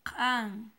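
can said loud and clear in Mam, a single crisp syllable; Mam word, clearly modelled. Shown as a demonstration. Teacher models the Mam word for yellow, loud and clear. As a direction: model can slowly for the class to repeat. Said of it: "se dice".

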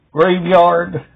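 normal talking voice

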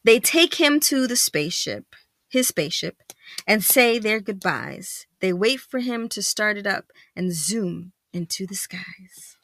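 animated, measured storybook narration; story read-aloud. A narrator's reading. Parent reading picture book to child, lively storytelling. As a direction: read it out clearly to a young child.

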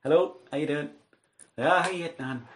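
imitating a Northern Irish phone greeting; a hint of a Northern Irish lilt; Northern Irish accent. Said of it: "I put on Northern Ireland accent".

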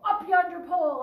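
"Up yonder pole" called loud and high; joyful shout. A narrator's reading. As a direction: shout it back to the pirates. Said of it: "I shouted".

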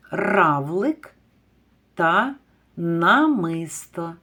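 намисто slow and drawn; slow confirming answer for children; slow confirming word. Shown as a demonstration. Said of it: "Це два слова".

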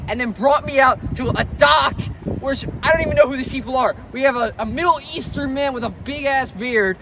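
worked-up, aggrieved rant; mad rant. Acted. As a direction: list your grievances in exasperation. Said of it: "I'm mad".

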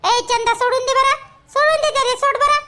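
loud call to let him go. Acted. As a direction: pull her off, raise your voice. Neighbour telling mother to stop.

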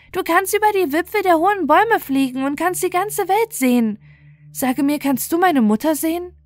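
put-on high, pleading child's voice; a lost child begging for an answer; small voice searching for its mother. Star-Child asks the linnet.

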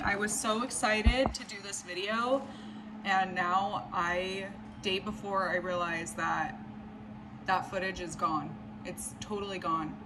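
soft, slowing, dejected voice; sad and defeated. Real, not acted. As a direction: sound crushed and worn out. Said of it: "feel so sad and defeated".

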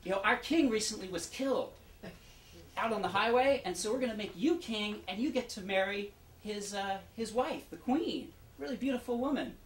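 mock-excited crowd hailing a stranger; excited townspeople. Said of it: "is so excited and says".

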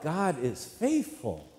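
slow, drawn-out mild call; half-yell it, stretching the words; demonstrated yell. Shown as a demonstration. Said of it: "if I yell out".

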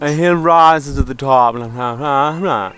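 a hint of a posh English accent; lightly posh English; mock English accent. Dubbing the ghost butler in a mock English accent. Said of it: "Way better English accent".

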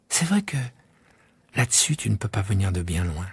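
put-on child reasoning to himself; musing little prince. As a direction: think aloud about the plane.

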